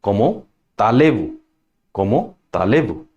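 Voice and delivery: "Cómo allez-vous" run together as ko-mo-ta-lay-voo; French liaison. Shown as a demonstration. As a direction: sound the linking t into "allez-vous". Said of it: "it will allied with".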